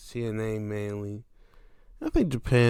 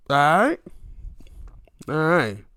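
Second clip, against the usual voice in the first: whispered; 6 semitones higher, 5 dB louder than usual. Real, not acted. Whispered aside.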